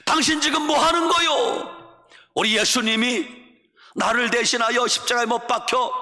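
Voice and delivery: high, urgent yell to stop someone; involuntary shout. Retold or imitated. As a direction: cry out in outraged protest. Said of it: "자기도 모르게 소리 지릅니다". (자기도 모르게 지르는 고함)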